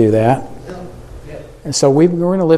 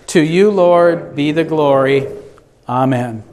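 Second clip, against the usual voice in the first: many voices in unison. Acted. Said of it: "let us say".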